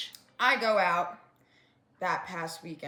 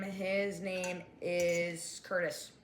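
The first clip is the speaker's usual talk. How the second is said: slow and deliberate; 3 semitones lower, 3 dB quieter, much slower than usual. Shown as a demonstration. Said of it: "let's give him a name".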